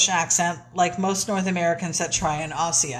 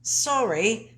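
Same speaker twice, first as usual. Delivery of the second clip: A singer's English accent, played for laughs; attempted English accent; 2 semitones higher than usual. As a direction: botch an Australian accent into English. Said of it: "that's you trying to be a singer".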